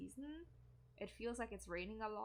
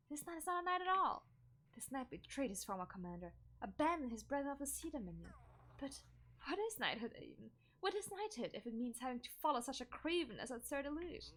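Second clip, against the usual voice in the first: bitter knight; 3 semitones higher than usual. Acted. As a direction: rail against the commander.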